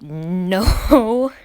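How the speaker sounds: mild, reasonable protest; not rude. Retold or imitated. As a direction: plainly point it out, without any rudeness. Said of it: "I said it exactly like that".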